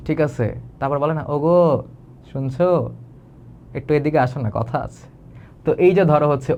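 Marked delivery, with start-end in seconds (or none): 1.3-5.1 tender call. Shown as a demonstration. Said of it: "different আবেগ দিয়ে ডাকি".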